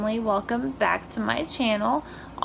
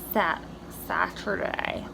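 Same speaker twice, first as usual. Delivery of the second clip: dehydrated; 5 dB quieter than usual. Real, not acted. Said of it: "I can't talk. I'm, like, really dehydrated".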